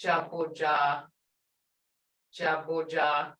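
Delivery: "Jaboja" with lengthened "ah" vowels; held longer. Shown as a demonstration. Teacher asking students to hear it, long vowels. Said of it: "held longer".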